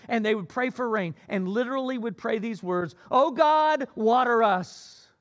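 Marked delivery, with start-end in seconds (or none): 3.1-5.1 loud, slow pleading call to God, water stretched out; loud cried prayer. Acted. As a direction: cry it out to heaven, slowly.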